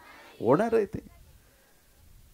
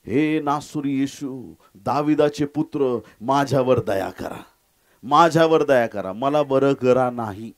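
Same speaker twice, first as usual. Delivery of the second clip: Bartimaeus; slower than usual. Acted. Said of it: "इतका ओरडला".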